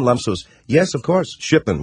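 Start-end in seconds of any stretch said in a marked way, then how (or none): 0.7-1.4 put-on higher, lightly accented Middle Eastern answer; mock Middle Eastern accent. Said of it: "I'm doing the accent".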